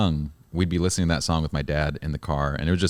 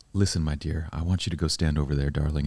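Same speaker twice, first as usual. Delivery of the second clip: creepy charmer; 3 semitones lower, 5 dB quieter than usual. Retold or imitated. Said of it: "anything other than creepy right now".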